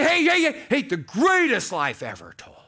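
loud, high showman calling; mock hype shout. Preacher parodying a hyped-up John, loud high barker call. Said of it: "He didn't say".

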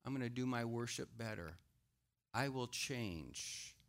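softly repentant; meek repentance. Acted. Cain repenting to God, meek and soft. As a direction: say it humbly, giving in. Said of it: "he should have said".

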